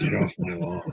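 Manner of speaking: gravelly voice, rasped out throughout. Repeating the quote after talk of a gravelly voice: gravelly Clint Eastwood voice. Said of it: "the gravelly voice".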